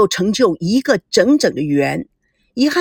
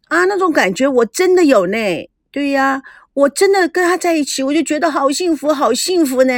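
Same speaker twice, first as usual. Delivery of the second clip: higher-pitched, blissful gush; gushing happiness; 5 semitones higher than usual. Acted. Character insisting the happiness is real, gushing. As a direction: gush about being so happy with him. Gushing about feeling happy.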